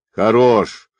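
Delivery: loud short call to stop; shouted command. A narrator's reading. Captain orders his sergeants to stop, loud shout. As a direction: halt the beating with a sharp shout. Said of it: "крикнул капитан".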